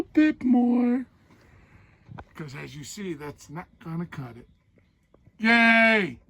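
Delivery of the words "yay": sarcastic yay. Real, not acted. Mock cheer, stove won't fit.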